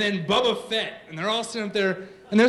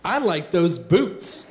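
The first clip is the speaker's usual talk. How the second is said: put-on four-year-old; slower than usual. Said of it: "my four-year-old steps right in front".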